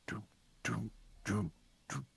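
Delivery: soft, whispered drum booms; distant war drums, voiced faintly under the breath; imitated drum beats. Imitates drums heard from ram ships.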